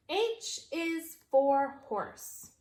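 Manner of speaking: slow read-along pace; slow choral reading. Shown as a demonstration. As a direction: read along slowly together. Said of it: "Read it with me".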